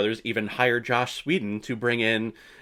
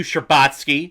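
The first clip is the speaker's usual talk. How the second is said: ordinary talk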